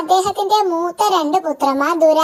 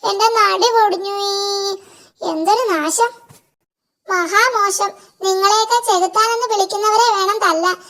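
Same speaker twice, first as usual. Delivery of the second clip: higher whiny goblin voice; complaining imp; 3 semitones higher than usual. Acted. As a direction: grumble like a sore little devil. Imp complains to devil king.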